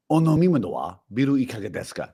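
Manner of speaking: quick grumbly Japanese line; grumbly Japanese man. Pretend. Showing a Japanese phrase to the co-host in a grumbly voice. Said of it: "I have to have a grumbly voice".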